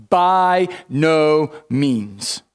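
very slow, every word set apart; emphatic no. Retold or imitated. Preacher reading Paul's answer, slow and weighty. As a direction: draw out each word as a final refusal. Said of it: "He says".

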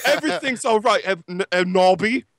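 a hint of a soothing boyfriend; sensitive Vampire. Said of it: "all sensitive".

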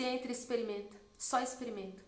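soft, coaxing nudge; quietly encourage, lightly voiced as a retold quote; gentle urging. Holy Spirit urging a daughter into the shop, gentle urging.

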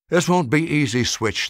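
put-on urgent warning old man. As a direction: warn the dog with concern. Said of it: "the toy maker warned".

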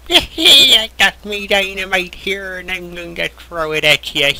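lightly voiced old-timer miner, slowed down; old prospector. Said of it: "He's gonna act like an old prospector".

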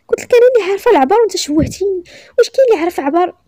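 high, loud, quick complaint; indignant scolding. A narrator's reading. Embarrassed customer scolding the shopkeeper, indignant.

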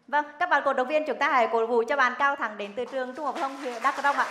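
rally the audience; game show host. Acted. Host rallies the fans.

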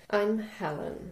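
slow, needy "I'm Helen". Pretend. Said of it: "my Helen sounded like I was needy".

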